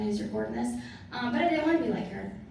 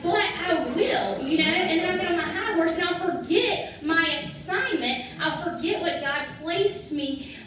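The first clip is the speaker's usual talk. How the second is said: laughing; 6 semitones higher, 5 dB louder than usual. Real, not acted. Laughing at her own pride.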